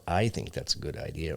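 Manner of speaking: "I" stressed with a rise at the end; stress on I, rising. Shown as a demonstration. Explaining intonation to hosts, stress on I with rise. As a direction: hit "I" and lift the tune. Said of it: "they don't have the intonation that we do in English".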